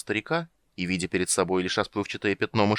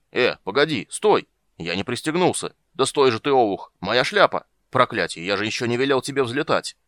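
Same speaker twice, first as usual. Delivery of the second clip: louder, flustered exclamations; alarmed protest; 3 semitones higher, 5 dB louder than usual. Acted. Unstrapped rider to rising dragon, alarmed shouting. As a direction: yell at a mount taking off too soon. Rider not strapped in at take-off.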